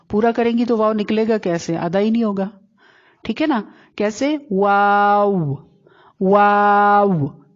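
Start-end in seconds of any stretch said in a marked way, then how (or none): 4.5-7.4 واو very slow, lips partly rounded; rounded waw. Shown as a demonstration. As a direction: stretch واو long, rounding into w. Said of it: "واو پہ منہ کو گول کر لینا". (واو گول ہونٹوں سے، کھینچ کر)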